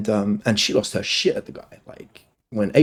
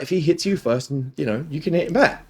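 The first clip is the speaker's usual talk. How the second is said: higher-pitched, lightly voiced dad; parent laying down rules; 5 semitones higher than usual. Dad retelling his rule to his daughter, mild parental firmness. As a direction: spell out the rule as to a child. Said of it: "I say that to my daughter all the time".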